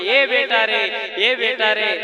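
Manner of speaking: mother's loud call for her son; acted wailing call; calling out loudly. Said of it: "जोर जोर से चिल्लाई".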